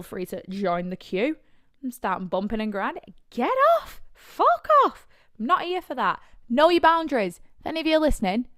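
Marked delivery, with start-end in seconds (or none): 3.3-5.1 high, loud outraged yell; angry shout. Retold or imitated. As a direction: shove them off with your voice. Acted retort to grinding men.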